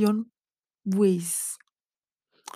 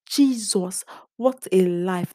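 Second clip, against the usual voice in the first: loud cry of despair; shouted; 5 dB louder, slower than usual. Retold or imitated. Vlogger recalling failing her course, shouting. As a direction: exclaim it loud and fed up. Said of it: "That was what I shouted".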